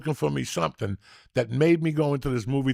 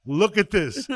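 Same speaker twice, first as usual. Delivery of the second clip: excited urging; 7 semitones higher, 4 dB louder than usual. Real, not acted. Excited rewatching comedy scene.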